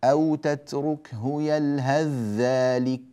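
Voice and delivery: slow "يلهث ذلك" with the tha merged into a doubled "ذ"; slow Quranic recitation of "تتركه يلهث ذلك"; recited assimilation. Shown as a demonstration. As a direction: say "يلهذّلك", drawn out. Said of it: "لاحظتم ماذا فعلنا".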